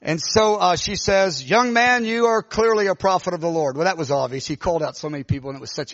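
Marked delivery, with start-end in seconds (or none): 1.5-3.8 lightly imitated prophetess, raised at the start; prophesying woman. Woman declaring a young man a prophet, prophetic. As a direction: pronounce it solemnly over someone. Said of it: "started prophesying".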